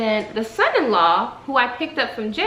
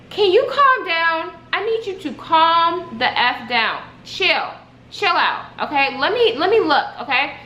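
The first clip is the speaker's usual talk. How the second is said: exasperated; 5 semitones higher than usual. Retold or imitated. Retold exasperated order to calm down.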